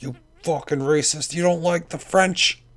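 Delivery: mock someone's outrage, drawing out the end; All McSide impression. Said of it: "That's his accent, too. That's a perfect Olmec's accent".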